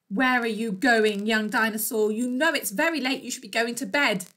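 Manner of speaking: loud, lightly voiced scolding mermaid; mermaid's telling-off. Mermaid to runaway dinosaur at bedtime, loud telling-off. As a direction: tell the youngster off, loudly and firmly.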